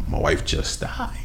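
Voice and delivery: very low, hushed, slow imitation of grief; choked up. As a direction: let the voice sink as if choked up. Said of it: "choked up, and he was like".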